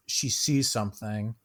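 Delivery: ordinary talk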